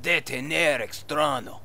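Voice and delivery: fake Spanish accent. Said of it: "your fake Spanish accent".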